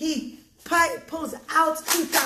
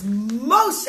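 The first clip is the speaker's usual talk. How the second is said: rising, louder name; very surprised; 3 semitones lower, 7 dB louder than usual. Acted. Judge looks at the scale and addresses Moshe, surprised. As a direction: stretch the name in mild astonishment. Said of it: "very surprised".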